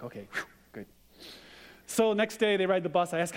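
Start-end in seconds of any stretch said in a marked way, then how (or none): 0.0-0.9 soft, dropped "whew" of relief; relieved sigh. Retold or imitated. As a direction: let the worry go out of your breath. Dad's relief retold.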